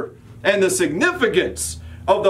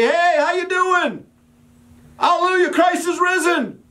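cheery greeting; 14 semitones higher than usual. Pretend. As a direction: hail the neighbour like an overjoyed churchgoer. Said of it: "wave to your bloody neighbors and say".

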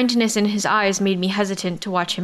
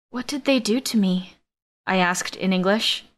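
usual speaking voice

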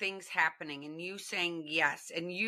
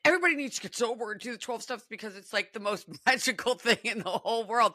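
excited; 3 semitones higher than usual. Retold or imitated. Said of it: "I was like".

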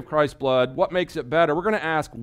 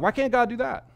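mock puzzled skeptic; 11 semitones higher than usual. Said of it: "People are like".

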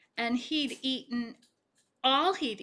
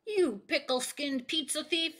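yelled; 5 semitones higher than usual. Acted. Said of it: "yelled Starvin' Marvin".

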